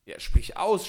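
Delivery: high, loud eager cry; urgent shout, rising at the end; cried out. A narrator's reading. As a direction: shout it out impatiently. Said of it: "schrie Chasid".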